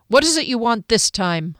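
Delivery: a touch of curt demand; impatient, wanting it over with; understated demanding question. Acted. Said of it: "Hunter demanded".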